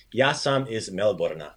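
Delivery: slow demo, Melbourne ending in "ah"; added A ending. Shown as a demonstration. Teacher recapping the inflection, "ah" ending on Melbourne. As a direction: add "ah" to the end of Melbourne. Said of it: "we added that A sound".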